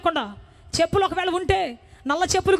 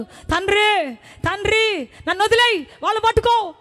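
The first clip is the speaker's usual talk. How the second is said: desperate cry; 3 semitones higher, slower than usual. Retold or imitated. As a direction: cry out to the Father in despair. Desperate cry to God retold.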